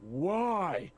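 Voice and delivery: a booming shout from high above; booming roar. Acted. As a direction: roar it down from the tower. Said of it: "a booming voice, uh, from up, clearly up on the top of the tower, roaring down at you".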